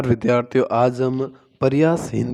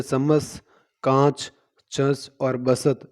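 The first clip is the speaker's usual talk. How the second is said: words read slowly one by one; slow out the words so the sound is heard; slower than usual. Shown as a demonstration. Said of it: "स वर्ण देखने को मिल रहा है".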